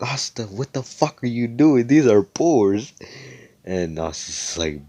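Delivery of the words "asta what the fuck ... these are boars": high, incredulous outburst, slowing and louder at the end; exasperated disbelief. Acted. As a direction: scold him in acted disbelief. Noelle objects to Asta's posturing.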